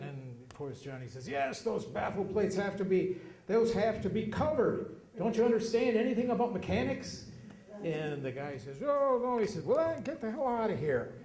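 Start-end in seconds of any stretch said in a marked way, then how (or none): 1.3-7.2 much higher, louder, scolding rant; imitating a mechanic's temper; mock furious mechanic. Johnny loses temper at customer. 8.8-9.4 very high, loud yelp of surprise; taken aback; mock startled. Customer cowed. 9.6-11.1 much higher, sharp kick-out; imitating an angry mechanic; mock angry dismissal. Johnny throws customer out.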